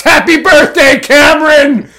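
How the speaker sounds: high, loud sarcastic shriek; all-caps shout. Acted.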